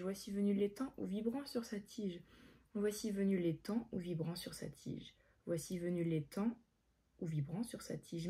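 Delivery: low-key drilling of a line; rote memorising. Real, not acted. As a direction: run the verse quietly to yourself.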